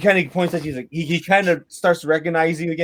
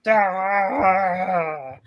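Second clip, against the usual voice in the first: frustrated cry; 4 dB quieter than usual. Acted. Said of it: "he's kinda like".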